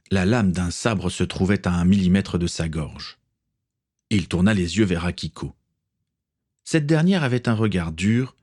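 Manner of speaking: plain reading voice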